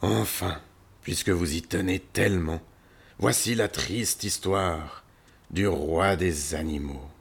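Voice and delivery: lightly voiced lion, slowing down; resigned lion. Lion yields to the visitors, resigned. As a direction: give in and announce the tale heavily. Lion begins his sad story.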